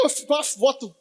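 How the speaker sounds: words sobbed out in imitation; mock crying. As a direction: blubber like an old man. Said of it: "o velho chorando é feio com força". (fala chorosa de velho, imitada)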